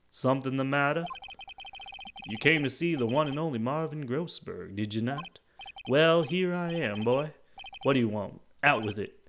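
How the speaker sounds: grandly self-important lawyer, impatient; loud, pompous prompting; Marvin Grossberg. Acted. Lawyer demanding the visitor's business, pompous.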